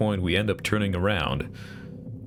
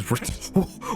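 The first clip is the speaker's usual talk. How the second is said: giggling; 9 semitones higher than usual. Acted. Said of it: "Tresca starts giggling".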